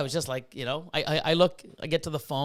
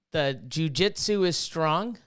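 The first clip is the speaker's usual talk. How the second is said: Star Wars quote; slower than usual. Acted. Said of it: "it's the Star Wars and jujitsu".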